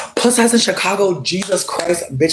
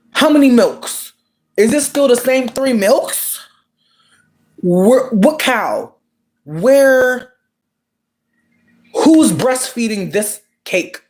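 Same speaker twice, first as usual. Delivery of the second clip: mock distress; 8 semitones higher, much slower than usual. Comic rant about the milks.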